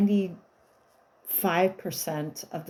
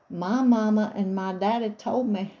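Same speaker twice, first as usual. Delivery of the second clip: put-on disguised little boy; 2 semitones higher than usual. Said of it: "but I'm disguising his voice".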